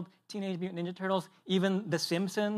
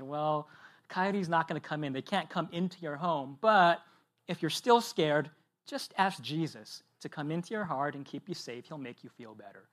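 soft, tender fatherly calm, fading softer; gentle reassurance; 2 semitones lower, 3 dB quieter than usual. Retold or imitated. Father soothing his son about coyotes, softer and tender. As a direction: tuck a scared toddler in with your voice.

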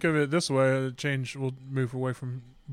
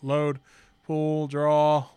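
slow and deliberate; much slower than usual. Shown as a demonstration. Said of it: "is a slow, methodic pull".

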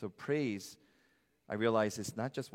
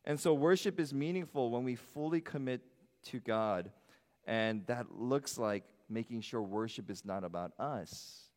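usual speaking voice

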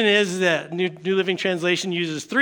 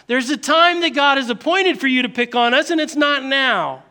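protesting demons; 4 semitones higher than usual. Acted. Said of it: "They say".

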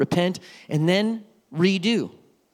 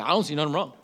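mocking a stubborn person; 4 semitones lower, much faster than usual. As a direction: lightly play the stubborn one who shrugs off blame. Mock unrepentant person.

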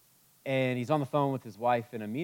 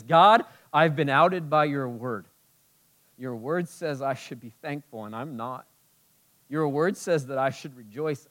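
sample prayer. Pretend. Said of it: "The solution is".

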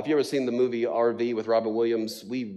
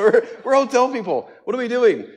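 high, louder laughing repeat; louder, giddier repeat of the wife's line; laughing harder; 12 semitones higher, 8 dB louder than usual. Retold or imitated. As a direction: crack up on the punchline.

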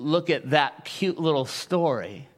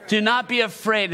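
preached shout; 3 semitones higher than usual. Real, not acted. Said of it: "One more time".

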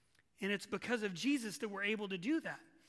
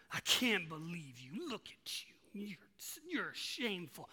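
whispered, contemptuous accusing voice; hissed accusation; 4 semitones lower, 4 dB quieter than usual. Pretend. Enemy whispering shame to the sinner, hissed and accusing. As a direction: breathe the shame into their ear like the enemy. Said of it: "it's the same person".

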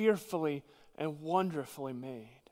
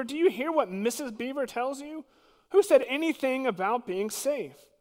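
Mister Beaver; 8 semitones higher, 4 dB louder than usual. Acted. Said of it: "said Mister Beaver".

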